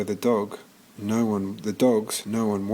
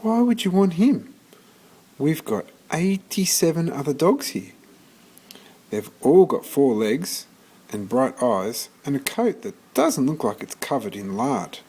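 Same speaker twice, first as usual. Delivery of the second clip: put-on lady arguing with the boy, high and incredulous; incredulous shelter lady; 4 semitones higher than usual. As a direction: talk him out of it, baffled. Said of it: "said the woman".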